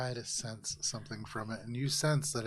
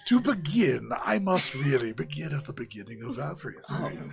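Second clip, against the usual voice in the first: long-winded mystic Javaris; 6 dB louder than usual. Acted. Javaris begins explaining everything to Valis, long-winded mystic. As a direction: launch ponderously into an endless tale. Game master voices Javaris.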